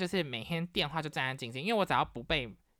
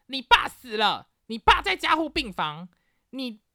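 higher, louder, slow mom on the phone; alarmed mom; 9 semitones higher, 7 dB louder than usual. Retold or imitated. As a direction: deliver the grim news loudly. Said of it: "她就说".

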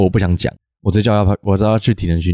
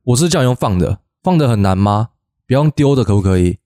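mock stern scolding, rising on 不要用丢的; practice scolding. Coach rehearses scolding kids for throwing balls, half-hearted stern. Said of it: "好啊，你演一下".

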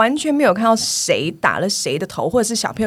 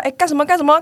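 calling out; 6 semitones higher, 3 dB louder, faster than usual. Retold or imitated. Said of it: "然后我就说".

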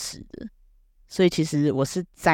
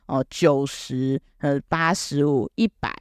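teacher reading grades; 4 semitones lower, slower than usual. Retold or imitated. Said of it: "他就说".

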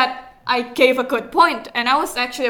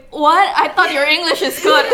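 loud, fast, incredulous question; mock surprise; 3 semitones higher, 7 dB louder, faster than usual. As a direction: act shocked at the news. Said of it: "people started like".

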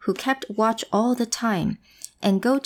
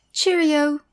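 cheery goat voice; 7 semitones higher than usual. Acted. Little goat says goodbye.

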